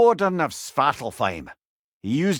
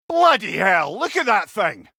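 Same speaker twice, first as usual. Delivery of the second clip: startled exclamation; 5 semitones higher, 3 dB louder than usual. Acted. Sees a huge creature.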